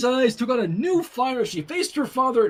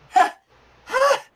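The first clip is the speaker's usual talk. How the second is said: proclaiming; 12 semitones higher, 5 dB louder, slower than usual. A narrator's reading. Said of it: "Twilight proclaimed, weakly".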